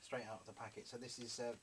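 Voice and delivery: eating while talking; talking through a bite of trout; mouth full. Real, not acted. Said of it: "excuse me when I'm spitting while I'm talking".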